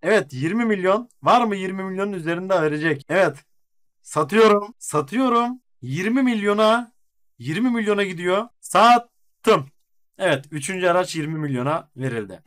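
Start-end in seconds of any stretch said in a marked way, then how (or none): 4.0-9.7 yükselen tonla mezat çağrısı; satışı kapatan mezatçı gibi seslen; auctioneer. Acted. Açık artırmayı kapatan mezatçı. (mezatçı sesi)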